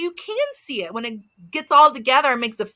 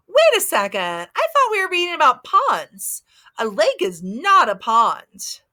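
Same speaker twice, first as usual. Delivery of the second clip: mock surprise; 3 semitones higher than usual. Mock confusion for kids.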